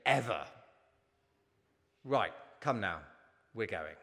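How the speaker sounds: stern father. Acted. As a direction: deny it flatly, then walk off. Cruel father in a story.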